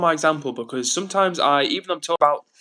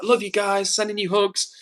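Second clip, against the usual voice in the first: mock-sweet and higher, gushing to viewers; sugary stream voice; 6 semitones higher, slower than usual. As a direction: parody his own lovey-dovey streamer persona. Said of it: "On the stream, I'm always like".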